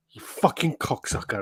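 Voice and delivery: slow breathless mock mutter under the breath; muttered insult. Retelling the toy shop trip, a slow hushed curse at the salesman. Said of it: "So I was like".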